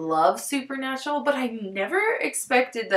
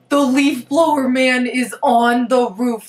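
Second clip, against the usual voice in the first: louder, slowed, disbelieving; exasperated; 6 dB louder, slower than usual. Real, not acted. Vlogger reacting to the leaf blower man on her roof, exasperated. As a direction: spell it out in outrage. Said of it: "noise on the roof".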